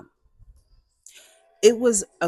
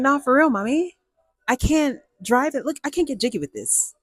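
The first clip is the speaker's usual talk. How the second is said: put-on higher-pitched, protesting kid to mom; mock pleading; 6 semitones higher than usual. Daughter begging mom off the blue car, mock pleading. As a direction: plead your case to mommy, pitched up.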